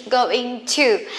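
"going to" said as two full, separate words; unreduced, careful "going to"; slow full form. Shown as a demonstration. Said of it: "it's quite slowly".

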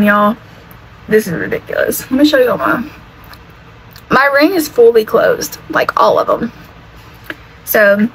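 words slurred by a numb tongue. Real, not acted. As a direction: talk with a tongue numb from ice cream. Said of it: "Did that sound weird when I was saying that".

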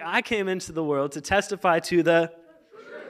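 animated, leading up to the cue; rousing re-read. Shown as a demonstration. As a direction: build it up so the crowd joins in. Restarts to get congregation excited.

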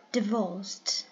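divorced with the weight on the second syllable; second-syllable stress. Shown as a demonstration. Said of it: "The second one is stressed".

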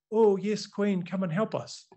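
put-on eager appeal; mock pleading. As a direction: play a grateful supplicant, tongue in cheek. Mocking a view he rejects.

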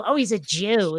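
"Jew" said with a little stank on it, mild contempt; sneering. Shown as a demonstration. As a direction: put a nasty sneer on the word "Jew". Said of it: "put a little stank on it".

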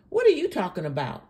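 fast, incredulous question; quick challenge. Real, not acted. Challenges the woman in the clip.

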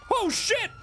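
very high shrieked alarm; frantic high-pitched yell; panicked scream. Pretend. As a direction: shriek as things go wrong. Panic during the car chase.

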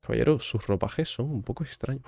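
ordinary talk, nothing marked

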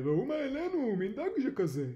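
loud, high excited fishermen; loud, eager hollering; excited calling out. A narrator's reading. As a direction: call your mates over to marvel at the catch. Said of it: "קראו דייגים זה לזה".

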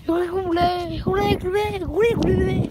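put-on a light British little kid's cheer; mock little kid. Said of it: "like one of those British little kids".

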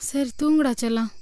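soft soothing. Acted. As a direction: hush the child gently. Mother soothes sleepy child. (தூங்கச் சொல்லும் அம்மா, மென்மையான குரல்)

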